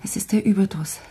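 drained, whispered lament; exhausted whisper. Acted. Abandoned mistress to her friend, exhausted whisper. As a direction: whisper it, worn out.

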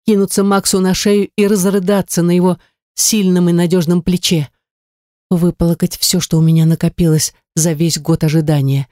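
ordinary delivery, nothing marked

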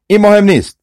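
narrated witch's cry. A narrator's reading. Witch brushes aside the brothers' objection, high-pitched cry. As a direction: dismiss it with a high storyteller's cry. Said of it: "جادوگر فریاد زد".

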